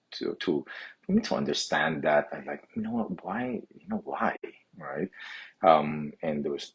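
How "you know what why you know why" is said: pitched way up, pleading and baffled; exasperated why. Retold or imitated. Young man asking why he is looked down on, high and exasperated. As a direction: throw the question up high, helpless.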